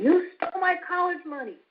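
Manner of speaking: mock angry accusation. Shown as a demonstration. Parent demonstrating a child's angry accusation, mock angry. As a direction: show the kid's anger in a quick demo. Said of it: "with anger?".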